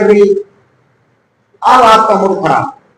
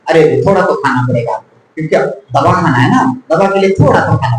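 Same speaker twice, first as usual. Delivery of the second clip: quick, low, gentle coaxing; loving coaxing; 5 semitones lower, faster than usual. Acted. Family member coaxing the patient to eat before medicine, lovingly. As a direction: coax a sick relative to take a bite. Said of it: "कितना प्यार से आप बोलते हो".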